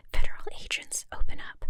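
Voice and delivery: a stronger, sterner whisper calling through the door; stern agent. Pretend. Federal agent at the door, stern whispered call. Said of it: "stern voice off screen".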